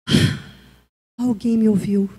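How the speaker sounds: breathy sigh before low relieved words. Acted. Hurting person finally listened to, acted sigh of relief. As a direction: let out relief at finally being heard. Sufferer relieved at being heard.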